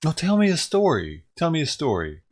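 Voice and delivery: loud, high, whiny insistence; mock demanding woman. Mocking her as she interrupts his paper, loud and high. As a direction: nag at him to tell a story.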